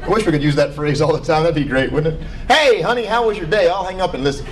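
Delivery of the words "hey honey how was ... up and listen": mock spouse greeting.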